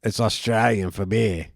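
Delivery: slow mock Aussie slogan; Australian accent. Quoting the commercial to a friend, mock Australian accent. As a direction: draw it out like an Australian beer ad. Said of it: "in the commercials they say".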